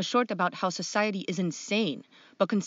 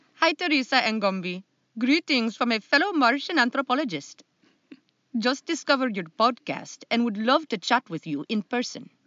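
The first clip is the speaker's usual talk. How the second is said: put-on Indian, Jamaican and Irish accent blend; 4 semitones higher, 3 dB louder than usual. Giving your own take on Raman from Tempe, Arizona, in a mixed Indian, Jamaican and Irish accent. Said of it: "this is my indian jamaican irish uh, take on this person".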